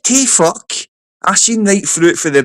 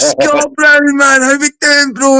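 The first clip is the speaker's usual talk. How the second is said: laughing greeting; 12 semitones higher, slower than usual. Retold or imitated. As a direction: greet him through a laugh, thrilled. Retold greeting of the DJ.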